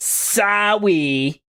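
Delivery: goofy, ridiculous voice, very high and drawn-out. Saying 'Sawi' as an apology, ridiculous silly voice on 'Sawi'. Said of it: "I'll just say it in a ridiculous voice".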